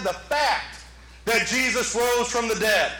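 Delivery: "fact" set apart with a pause after it; stress on fact. Shown as a demonstration. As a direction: land firmly on "fact", then pause. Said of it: "did you hear what I said?".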